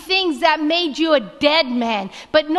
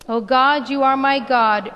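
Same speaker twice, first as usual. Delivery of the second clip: reading together. Acted. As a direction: lead the congregation in unison reading. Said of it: "Can we say this one together?".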